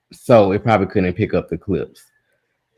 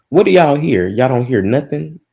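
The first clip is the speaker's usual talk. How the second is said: higher, louder call to chat; 6 semitones higher, 4 dB louder than usual. Real, not acted. Streamer calls out to chat over broken audio, loud.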